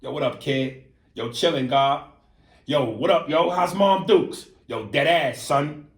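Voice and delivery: lightly voiced New York street greeting; New Yorker slang. Shown as a demonstration. Host demonstrating how New Yorkers greet each other, casual slang. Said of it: "When New Yorkers go".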